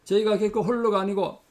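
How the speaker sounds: steady prayer voice; closing prayer. Acted. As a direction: pray earnestly over the congregation.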